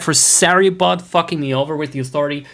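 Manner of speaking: put-on a touch of Scottish accent, "use" for you lot. Streamer to chat, playful light Scottish accent. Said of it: "do my Scotch accent again".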